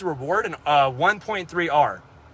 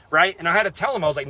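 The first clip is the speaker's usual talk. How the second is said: normal talking voice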